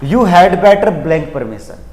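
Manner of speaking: reads the question very slowly, word by word; teacher reading the question aloud slowly. Shown as a demonstration. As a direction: spell the sentence out slowly for the class. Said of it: "पहला question क्या है".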